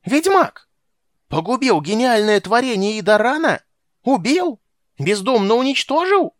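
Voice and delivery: high, loud indignant shouting; outraged old man. A narrator's reading. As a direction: rail at him in a thin high voice. Old mage outraged at the witcher. (возмущённый крик старого чародея)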